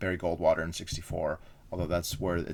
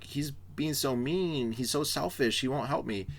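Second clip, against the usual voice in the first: slow, higher mock whine; whiny complaint; 5 semitones higher, 3 dB quieter than usual. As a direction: sulk like a wronged child, drawn out. LBJ complaining to the wife.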